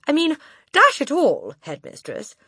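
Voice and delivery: slowed, placating tone; calm her down politely; mildly protesting boy. Acted. Boy protesting to the headmistress.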